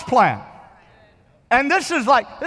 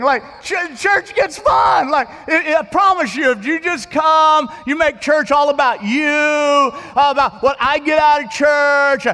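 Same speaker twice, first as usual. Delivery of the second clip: preaching at full force; 2 semitones higher than usual. Real, not acted. Pastor rouses the congregation, preaching hard. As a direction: drive the point home to the pews.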